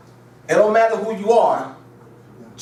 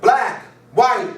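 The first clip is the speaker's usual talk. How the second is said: mocking the professor; 4 semitones higher than usual. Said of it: "talking like this?".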